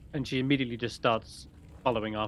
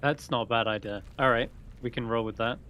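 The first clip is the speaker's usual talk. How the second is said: ordinary delivery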